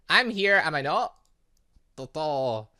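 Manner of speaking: ordinary delivery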